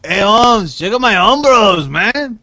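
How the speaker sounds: loud, high put-on cholo; mock cholo. Co-host as a loud homeboy showing off his Umbros. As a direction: strut and show off like a homeboy.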